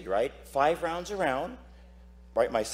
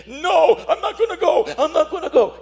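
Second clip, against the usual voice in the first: high, loud mocking demon voice, half laughing; defiant demon; 12 semitones higher, 7 dB louder than usual. Exorcist retelling the angry demon, high mocking demon voice. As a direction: taunt like a devil refusing to leave. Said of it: "He's like saying".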